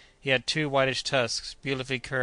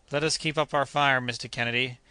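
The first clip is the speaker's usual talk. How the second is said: urging. Acted. The doctor urging Kennedy on, mildly raised. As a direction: press them to keep firing. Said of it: "urged the doctor".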